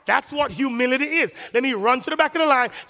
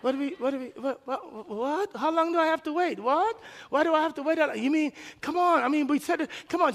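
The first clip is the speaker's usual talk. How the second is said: higher, exasperated complaining; mock indignant; 5 semitones higher, 4 dB quieter than usual. Pastor mimics his demanding self to the host, whiny and exasperated. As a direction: whine at the host like a spoiled customer. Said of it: "I was like".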